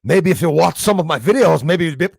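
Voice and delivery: loud, high mock Scottish accent; imitated Scottish accent. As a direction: mimic his accent back at him, loudly. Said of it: "at him doing the same accents".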